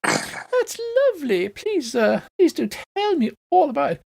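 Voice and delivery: very high, fluting matron voice; matronly heron. Acted. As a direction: welcome them like a gushing matron, high-pitched. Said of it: "and she goes".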